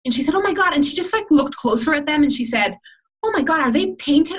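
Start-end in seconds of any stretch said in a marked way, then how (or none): 0.3-0.7 much higher, breathless "oh my God"; a stranger at a bus stop, higher in awe; amazed gasp. Retold or imitated. Woman marvels at the boots. 3.2-4.4 high, wondering question about the boots; a stranger peering at the boots, high and amazed. Retold or imitated. Woman peers closer at the boots.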